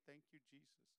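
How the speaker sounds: soft, peaceful murmur of thanks; peaceful praise. Acted. Father walking around the house praising, softly and peacefully. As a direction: voice a contented man quietly giving thanks. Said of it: "they need to see a peaceful man".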